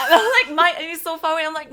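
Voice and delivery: laughing through a funny story; giggling as she tells the supermarket bit; laughing while telling. Real, not acted. Telling her friend about Michael while laughing. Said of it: "That's brilliant".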